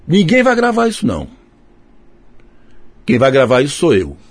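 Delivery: indignant mock decree, starting high; imitando o bravo. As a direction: lay down the law as the offended man. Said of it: "ele ficou bravo". (proibição indignada, imitando o bravo)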